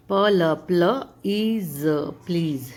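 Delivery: प्लीज split as प्ल and ईज, then joined; sound by sound. Shown as a demonstration. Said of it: "छोटी छोटी sounds में तोड़ करके". (प्लीज को टुकड़ों में जोड़ना)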